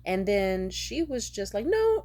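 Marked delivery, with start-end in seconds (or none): 1.7-2.0 high squealed mock protest, much louder; mocking pleading girlfriend. Man mimicking his girlfriend's protest, high mock squeal. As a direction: squeak out a hammed-up no. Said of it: "he was even mocking her with a smile".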